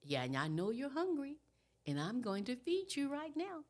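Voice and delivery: gentle acted baby-soothing, lifting in pitch; soothing mother. Mother going straight to her crying baby, soothing. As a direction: reassure a crying baby as a parent would.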